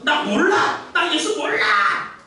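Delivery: high, slow, hammering denial; emphatic denial. Retold or imitated. Peter nailing down his denial of Jesus, high and slow. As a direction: drive each word in like a wedge. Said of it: "쐐기를 박아 말했잖아요".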